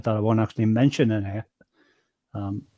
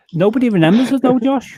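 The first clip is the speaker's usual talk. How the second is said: mock lament; 11 semitones higher, 5 dB louder than usual. Real, not acted. Raised pitch and level.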